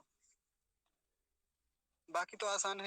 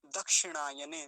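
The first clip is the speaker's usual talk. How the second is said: model pronunciation; 2 semitones lower than usual. Shown as a demonstration. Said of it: "यहाँ क्या लिखेंगे".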